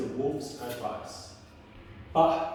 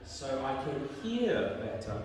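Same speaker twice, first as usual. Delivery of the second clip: low, softer storybook wolf; 4 semitones lower, 6 dB quieter than usual. Acted. Wolf answers Red Riding Hood, low soft voice. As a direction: answer slyly, dropped low and quiet. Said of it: "And the wolf says".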